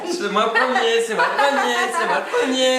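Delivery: excited. Real, not acted. Racing to finish, triumphant.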